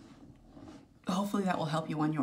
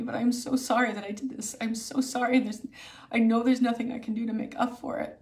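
higher pleading sorry, a touch of crying; retold tearful apology; 4 semitones higher, 3 dB louder than usual. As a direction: lightly replay the desperate apology to herself. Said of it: "really, I was wailing".

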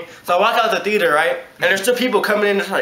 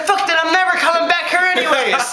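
mock defiant; 9 semitones higher than usual. Customer storms off.

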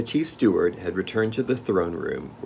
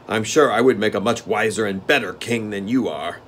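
steward; 2 semitones higher, 5 dB louder than usual. Acted. Steward grumbling.

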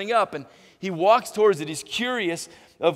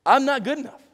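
high, louder whiny self-doubt; Moses doubting; 8 semitones higher, 5 dB louder than usual. Retold or imitated. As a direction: plead your unworthiness. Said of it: "what Moses is saying is".

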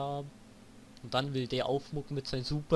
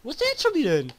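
high, loud frantic shouting; frantic yelling; 8 semitones higher, 5 dB louder than usual. Real, not acted. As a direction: yell while hunting him. Frantically searching the enemy.

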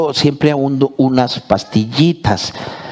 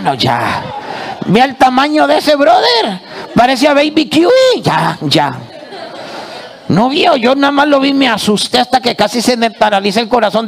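squeaky startled puppet, pitched way up; excited puppet voice; 8 semitones higher than usual. Acted. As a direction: rattle it off in the high puppet voice. Puppet tells scare story, high pitch.

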